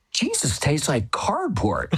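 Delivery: high, hoarse-whispery imitation of a loud child; mock loud child. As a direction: imitate a little girl's too-loud church remark, without real volume. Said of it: "she said very loudly".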